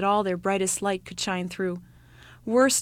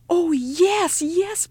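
much higher, breathless yes yes; eager little child; 10 semitones higher, 4 dB louder, much slower than usual. Acted. Youngest child pleading with his mother, eager and high. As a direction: beg like a thrilled small boy.

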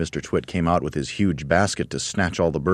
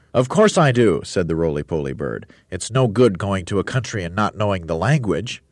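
grand roly-poly bird; 3 semitones higher, 3 dB louder than usual. Acted. Roly-poly bird boasting to the monkeys, grandly. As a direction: puff up like a vain bird.

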